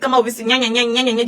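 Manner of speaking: taunting sing-song nya nya nya; mock critics with childish nya nya. Mocking critics who shout karma, taunting nya nya. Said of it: "You are shouting".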